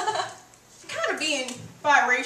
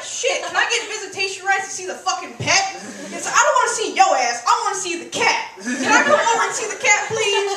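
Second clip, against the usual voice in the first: pleading for the cat; 3 semitones higher, 4 dB louder than usual. Retold or imitated. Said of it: "and you're like".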